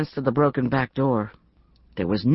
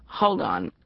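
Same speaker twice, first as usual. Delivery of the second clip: soft whisper, lower; 7 semitones lower, 3 dB quieter than usual. Acted. Friend in bed asks her to wait, whispering. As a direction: breathe it as a whisper. Woken friend pauses the call.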